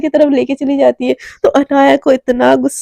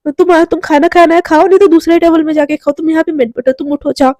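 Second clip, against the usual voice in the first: shouting; 3 semitones higher than usual. Acted. Garima driving Anaya off the table, a mild mock yell. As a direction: tell her off sharply, then wave her away. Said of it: "एकदम चिल्ला के बोलती है".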